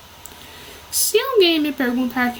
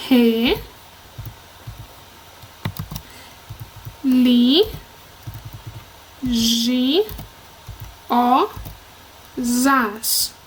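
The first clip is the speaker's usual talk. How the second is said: re, li, gi, o, zas with long pauses; each syllable of re, li, gi, o, zas held alone; 2 semitones lower, much slower than usual. Shown as a demonstration. Teacher dividing a word, re, li, gi, o, zas one at a time. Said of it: "nós temos".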